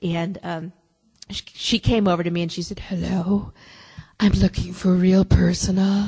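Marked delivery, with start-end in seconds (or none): 2.8-6.1 put-on low, hushed whisper. Retelling a woman who came over asking for directions, imitating a low whisper. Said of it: "had a very low whisper like this".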